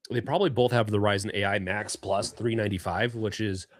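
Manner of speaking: talking with gum in mouth; chewing gum. Real, not acted. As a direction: speak around a wad of gum. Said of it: "I have gum in my mouth".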